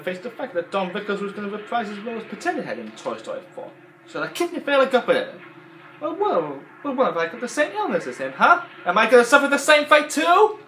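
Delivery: high, loud mock accusation; Mister Potato Head voice. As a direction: riff on the quote in the toy voice. Parodies the Potato Head lines.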